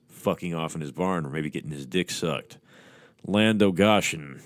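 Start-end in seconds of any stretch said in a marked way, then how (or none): 3.3-4.4 a mildly snapped, slow challenge; snapping. Acted. Hunter snapping at the figure in his barn, mild irritation. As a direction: bark it at the kid in the loft, not too hard. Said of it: "he snapped".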